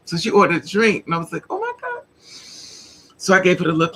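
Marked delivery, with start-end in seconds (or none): 1.5-2.0 very high, small voice; soft high squeak of dread; mock-mortified, high and hushed; acted-out dismay. Retold dismay at friend accepting drink.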